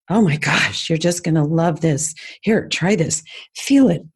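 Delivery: a lightly animated, gushing sales voice; enthusiastic pitch. Retold or imitated. Saleswoman to women trying facials, mildly gushing. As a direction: sell it with mild excitement in your tone. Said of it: "with the tones".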